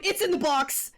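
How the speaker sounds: loud, high, thrilled yell; excited shouting. Real, not acted. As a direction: shout it in triumph. Streamer gets code, celebrates.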